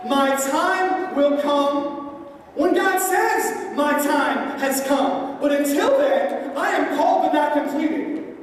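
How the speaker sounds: slow, earnest David, hint of sermon fervor; David resolved, preached. David telling his men to wait, slow and earnest. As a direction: lay it out slowly, like a vow.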